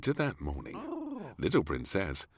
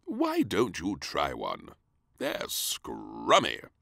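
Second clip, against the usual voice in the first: coaxing king; 2 semitones lower, slower than usual. Acted. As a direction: tempt the child gently.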